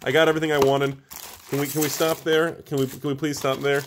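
high, frantic pleading voice, easing as it goes; Jake. Acted. Patron begging the host to stop opening boxes, frantic mock plea. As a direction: beg in a pushed-up imitation voice. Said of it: "my patron Jake's like".

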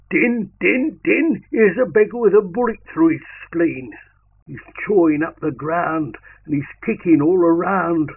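high, loud urgent call. Acted. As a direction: shout for help over the wounded man. Calling for help for the wounded.

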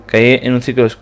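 drowsy narration. Acted.

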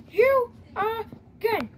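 very slow, weary "You again?"; exasperated drawl. Acted. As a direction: drag out "You again?" in disbelief. Same line repeated, slower later.

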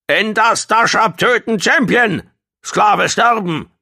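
high, screeched creature outburst; screaming. A narrator's reading. Gong protests to Dashab about the slave, screaming. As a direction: screech in broken speech at full voice.

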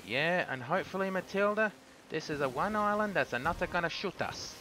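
put-on a feeble stab at a French accent; poor French accent. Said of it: "a very poor attempt at an, at a French accent".

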